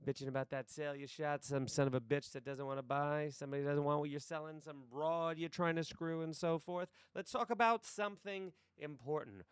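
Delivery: lightly acted hard-nosed sales boss; monologue audition voice. Boss belittling salesmen's excuses, lightly acted monologue voice. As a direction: run through the complaints, then lift the pitch for the point. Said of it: "Here's my monologue audition".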